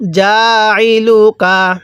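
drawn-out chanted recitation; slow Quran recitation. Shown as a demonstration. Teacher reciting slowly for students to repeat. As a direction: recite slowly, stretching each vowel. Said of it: "কিভাবে পড়ব?".

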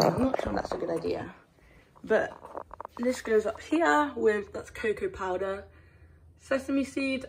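talking around a spoon in mouth; words mumbled past a spoon held in the mouth. Real, not acted. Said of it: "I have a spoon in my mouth".

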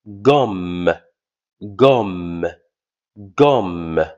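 "Gomme" ending on one held m; single M. Shown as a demonstration. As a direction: model "gomme" with the m said once. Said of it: "On prononce seul M". (« gomme » avec un seul m)

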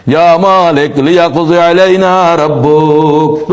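slow Arabic chant with long held vowels; melodic Quran recitation. Real, not acted. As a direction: recite the verse slowly in a tune. Recites the verse. (সুরেলা ধীর তিলাওয়াত)

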